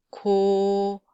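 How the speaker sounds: drawn-out plain Korean "Ko"; plain lax k. Shown as a demonstration. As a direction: say "Ko" relaxed and held out. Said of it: "let's just read each sound".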